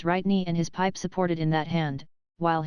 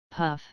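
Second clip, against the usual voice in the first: soft pipe puff; 2 semitones lower than usual. A narrator's reading. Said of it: "composedly smoking".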